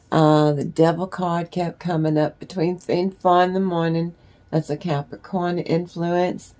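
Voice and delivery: talking while up a ladder; speaking while climbing a ladder. Real, not acted. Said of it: "I'm up on a ladder".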